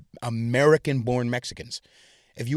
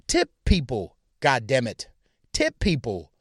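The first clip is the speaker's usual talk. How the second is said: angry rant; 6 semitones higher than usual. Real, not acted. Angry rant about tipping.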